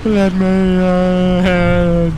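loud pleading yell; desperate shouting. Real, not acted. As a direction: bang on the door and yell. Begging to be let inside.

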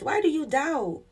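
asked high and full as a direct challenge; a pointed, lifted rebuke. Retold or imitated. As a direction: put the question up high, pressing. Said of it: "He's like".

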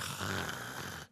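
low, soft, long sleepy breath; dozing-off snore. Acted. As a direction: act out nodding off in prayer. Acts dozing off in recliner.

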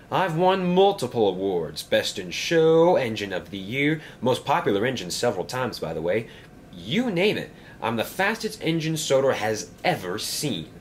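lightly voiced show-off engine; a hint of a vain storybook engine; boastful grand engine. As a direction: reel off honours with mild self-importance.

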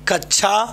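"कक्षा" said as kach-chha; no k-sh cluster in "कक्षा", just kachchha; common mispronunciation. Shown as a demonstration. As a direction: use a chha sound in "कक्षा". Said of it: "कक्षा शब्द का शुद्ध उच्चारण".

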